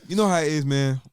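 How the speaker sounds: put-on Brooklyn accent. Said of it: "let's get your New York".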